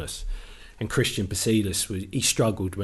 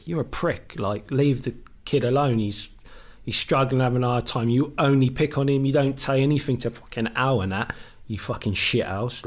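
raised, heated telling-off, pitch up; angry retold rant; 3 semitones higher than usual. Player tells off the assistant in a heated rant. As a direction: rant at the coach for picking on the kid.

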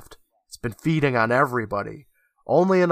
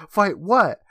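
higher-pitched mock yell; mildly yelled, acted question; retold yell; 8 semitones higher, 4 dB louder than usual. Amanda questions the weakening Felix in a mock yell. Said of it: "And Amanda yells".

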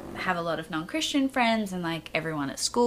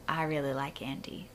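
whispered confession; 4 semitones lower, 9 dB quieter than usual. Retold or imitated. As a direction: confide it under your breath. Confessing to mom secretly.

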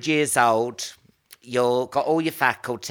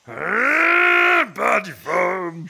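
advert voice; 5 semitones higher, 4 dB louder, much slower than usual. Retold or imitated. Mock Body Form advert voice.

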